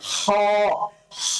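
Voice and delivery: হ from the very back of the throat; deep throat h demo. Shown as a demonstration. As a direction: pull হ up from deep inside. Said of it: "কণ্ঠনালীর শেষের অংশ থেকে আপনি উচ্চারণ করবেন".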